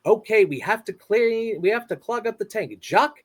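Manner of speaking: Finding Nemo impression. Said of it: "my Finding Nemo impression".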